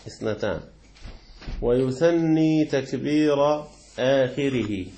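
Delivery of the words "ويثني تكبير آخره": slow ويثني with a doubled ن; drawn-out wa-yuthanni takbira akhirihi; emphatic reading. Shown as a demonstration. Teacher rereading the text line with weight. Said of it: "الأفضل أن نقول يثني".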